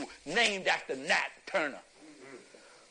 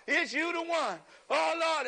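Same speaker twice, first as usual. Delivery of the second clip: imitated anointing cry; 8 semitones higher than usual. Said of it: "we went to the babies".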